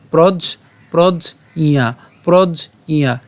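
"প্রজ ইয়া" slowly, with iya through the nose; nasal pronunciation. Shown as a demonstration. Teacher saying it must be nasal, "প্রজ ইয়া" with nasal iya. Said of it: "অবশ্যই নাকে উচ্চারণ হবে".

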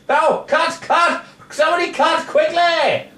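high, urgent call to stop; urgent cutting in. Acted. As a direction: cry out to halt the take. Calls to stop the singing.

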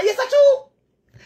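slow, high, laughing "ah, true"; laughing drawn-out agreement. Pretend. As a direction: stretch it out through a laugh.

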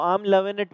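"I am loving it" with loving said as lovin', no g; American pronunciation. Shown as a demonstration. Teacher repeating "I am loving it" as Americans say it. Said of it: "बोलते हैं".

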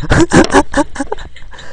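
airy high-pitched giggle; high breathy laugh. Real, not acted. Laughs after forgetting song.

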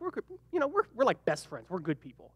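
a mumbled excuse nobody believes; meek sheepish claim. Retold or imitated. Brothers meekly claim to be good.

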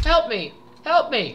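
high eerie plea; creepy cartoon voice. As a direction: echo the spooky cartoon call. Repeating creepy line.

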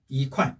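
"이" rising lightly, "콰이" falling strongly; weak second-tone 이. Shown as a demonstration. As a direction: lift "이", then drop "콰이". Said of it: "앞에 이를 약으로 읽어줘서".

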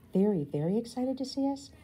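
put-on a girl thrilled that Dad wants to see them; excited hope. A narrator's reading. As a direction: bubble up with hope. Excited disbelief about Dad.

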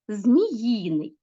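зміїний with the stress on the suffix Ї. Shown as a demonstration. Teacher showing pupils suffix stress, зміЇний stressed on Ї. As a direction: lean on the middle syllable of зміїний. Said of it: "Тут падає".

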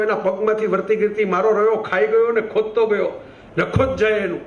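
lightly voiced maid cursing the thief, ending on a fall at ગયો; a mild mock rant of a housemaid in dialect; servant's curse. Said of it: "આવું નોકરબાઈ બોલી".

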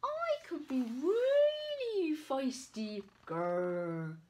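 high, eager little animal voice with a growl; feisty ferret. Acted. Ferret boasting to the shopkeeper, playfully fierce. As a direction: puff up and act fierce.

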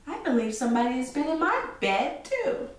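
lightly voiced mama bear, quick, rising high at the end; a touch of mama bear. Mama bear finding her bed used, lightly voiced.

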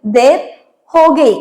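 ദേർ ഹോഗി stretched slowly, each word drawn out; slow, careful model of ദേർ ഹോഗി; slow repeat. Shown as a demonstration. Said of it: "നേരം വൈകി".

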